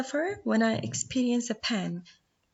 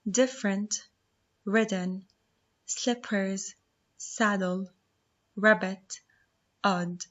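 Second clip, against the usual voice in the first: word list reading; slower than usual. Shown as a demonstration. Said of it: "Spelling words that we have to know are".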